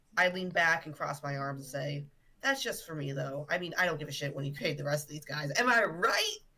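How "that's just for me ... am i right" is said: playful, tongue-in-cheek, clearly kidding tone. Speaking in character to the party about late payment: joking tone. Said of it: "in the most jokingly way possible".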